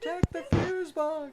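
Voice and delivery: high, slow put-on voice; ghost hunter quote. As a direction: mimic a video ghost hunter. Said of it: "you're about to say".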